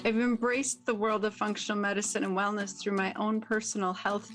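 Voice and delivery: brisk, upbeat host intro over music; podcast intro read. Acted. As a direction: sell the show like a radio promo.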